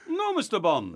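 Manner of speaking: amateur impression of a master villain; Goldfinger. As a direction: deny the captive spy grandly. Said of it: "Goldfinger says in reply".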